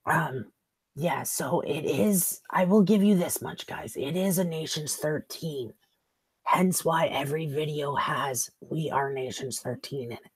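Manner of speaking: hoarse, worn-out voice; raspy from a sick throat; smoker's rasp. Real, not acted. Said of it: "I sound like I've been smoking".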